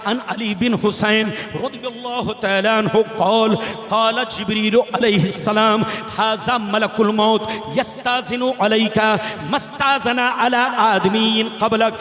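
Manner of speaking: steady measured recital of the Arabic text; Arabic hadith recitation. Acted. Preacher recites the hadith of the angel of death, measured chant. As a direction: read the Arabic with a preacher's cadence.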